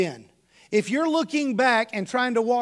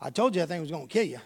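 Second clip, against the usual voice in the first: casual told-you-so; 4 semitones lower, 3 dB quieter, faster than usual. Retold or imitated. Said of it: "casually walked over and he goes".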